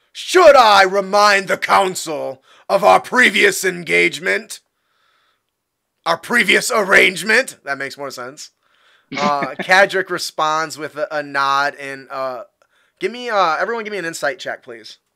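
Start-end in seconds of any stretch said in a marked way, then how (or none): 0.2-7.6 very angry, loud, high, furious tone. A Farstrider walks up and addresses the council: very angry. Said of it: "very angrily".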